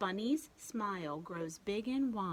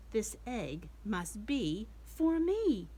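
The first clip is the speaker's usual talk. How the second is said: mild joy; 6 dB louder, slower than usual. Acted. Bluebird's line read aloud.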